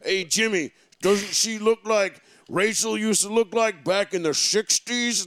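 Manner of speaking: lightly voiced leering old man, slow; a hint of a drawn-out creepy old uncle ogling. Mocking a creepy old golfer.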